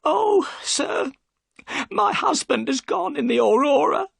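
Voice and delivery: crying out to the detective; tearful. Acted. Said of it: "and burst into tears".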